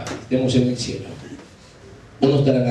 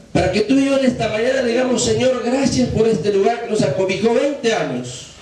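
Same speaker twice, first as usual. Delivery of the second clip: raised, earnest pulpit prayer; impassioned preacher voicing a prayer; fervent prayer appeal; 9 semitones higher than usual. Real, not acted. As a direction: lead the congregation in thanks. Leads congregation in a prayer.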